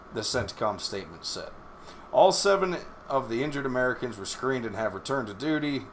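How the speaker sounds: steady newsreader delivery, reading the article out; reading the report straight before commenting; news read. Acted. Reads a news article aloud.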